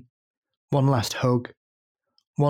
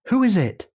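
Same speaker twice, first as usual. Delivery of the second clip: higher, lightly voiced mother asking; a mother puzzled by a silent caller; 8 semitones higher, 3 dB louder than usual. A narrator's reading. Mother on the phone.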